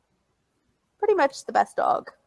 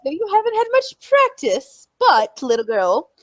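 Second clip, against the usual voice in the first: imitating him; 5 semitones higher than usual. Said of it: "He's like".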